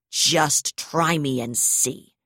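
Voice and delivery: slow, pressed snarl through gritted teeth. Acted. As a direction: hold back a shout, teeth clenched. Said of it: "she snarled through gritted teeth".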